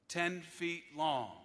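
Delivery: TEN... FEET... LONG, each word set apart; slow down and weigh every word of "ten feet long"; dragged-out, deliberate "ten feet long"; slow emphasis. Real, not acted. Repeats the length for comic emphasis.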